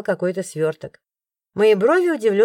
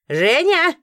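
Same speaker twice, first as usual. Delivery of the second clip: calling out; 8 semitones higher, 3 dB louder than usual. A narrator's reading. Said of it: "гаркнула миссис Бернет".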